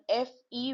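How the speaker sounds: fe said as "fay"; syllable demo with é. Shown as a demonstration. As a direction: sound out fe with a closed é. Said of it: "with the accent aigu is fe".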